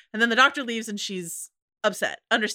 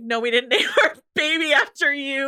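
brash mock Jackie, laughing through it; a hint of a mum telling off the doctor, amused; imitating Jackie; 5 semitones higher, 3 dB louder than usual. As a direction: scoff at him like Jackie, half laughing. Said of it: "Jackie being like".

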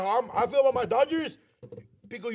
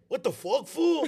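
mock outraged; 5 semitones higher, slower than usual. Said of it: "And he's like".

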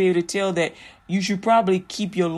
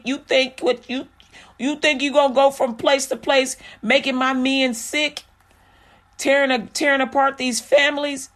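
scolding God; 4 semitones higher than usual. Retold or imitated. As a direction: rebuke her like an angry God. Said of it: "God is telling her".

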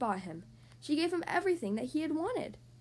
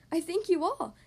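excited; 4 semitones higher, 4 dB louder than usual. Acted. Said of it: "said Babar excitedly".

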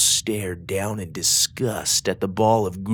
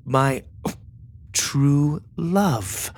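reading a letter aloud; 6 semitones higher, much slower than usual. A narrator's reading. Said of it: "She continued".

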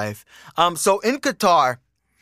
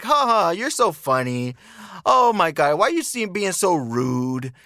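mock flirty women; 2 semitones higher than usual. Women flirting back at the speaker, mock playful protest. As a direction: mimic women teasing back, stretching the last words.

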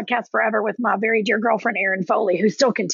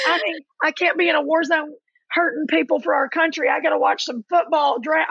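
higher-pitched, mock-desperate imitation; pleading brother; 5 semitones higher than usual. Brother excuses himself to watch the draft, mock-desperate. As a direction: play up a brother's overblown excuse.

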